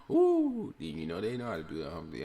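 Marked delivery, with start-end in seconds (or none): 0.1-0.7 high, loud "woo"; hype whoop. Pretend. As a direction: let out a piercing party whoop. Hump day hype calls.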